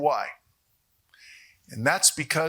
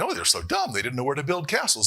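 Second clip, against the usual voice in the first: mock dismissive quote; faster than usual. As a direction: scoff as an imagined know-it-all. Mocking a dismissive view of builders.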